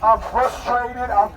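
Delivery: voicing pent-up anger, rising to a peak; building frustration. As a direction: let it all out, climbing in pitch. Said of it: "Just go ahead and say it".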